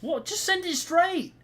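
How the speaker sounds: high, loud, drawn-out cry of frustration; exasperated shout. Real, not acted. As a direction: yell it in exasperation, stretching the words. Exasperated at a bad pass.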